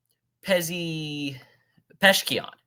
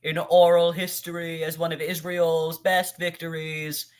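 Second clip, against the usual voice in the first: mocking impression. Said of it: "you wanna talk like that?".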